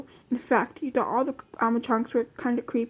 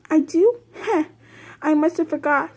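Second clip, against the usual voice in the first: ditzy chicken; 5 semitones higher, 3 dB louder than usual. A narrator's reading. Scatterbrained Chica voiced higher.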